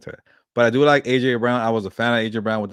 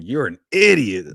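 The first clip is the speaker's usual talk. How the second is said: quoting brother; 2 semitones higher, 6 dB louder than usual. Retold or imitated. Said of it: "that's how he says that".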